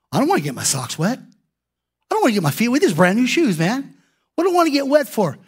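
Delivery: whiny reluctant believer, lightly voiced; mock whiny excuse. Preacher mocks people afraid to step in, lightly whiny. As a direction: grumble about getting your "feet" wet.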